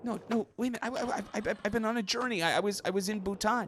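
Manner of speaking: stammering high voice clinging to the story; high put-on voice. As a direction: insist in a strained high voice. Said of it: "using different voices".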